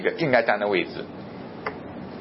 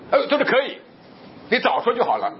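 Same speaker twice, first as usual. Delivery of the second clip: lightly voiced clerk, pitched up and casual; offhand clerk; 11 semitones higher than usual. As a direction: toss it off like a busy counter clerk. Clerk refuses the express delivery.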